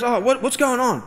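mock startled, high voice; imitated tearful bewilderment. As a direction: raise the pitch, baffled and overwhelmed. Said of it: "water just started falling out".

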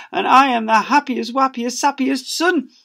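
gushing son. Acted. Son gushing back to mum, high babyish voice. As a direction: blubber it sweetly.

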